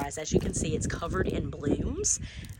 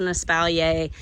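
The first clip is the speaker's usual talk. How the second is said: espalier said the Southern way, /ə-spæl-jeɪ/ with the ending -ay; Southern pronunciation; 4 dB louder than usual. Shown as a demonstration. Gardener showing viewers her Southern way of saying espalier. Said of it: "I say it with a Southern accent".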